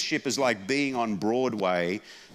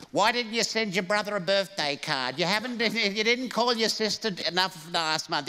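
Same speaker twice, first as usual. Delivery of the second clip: put-on high nagging old mother, laughing; nagging mum; 9 semitones higher than usual. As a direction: list his sins like a nagging mum.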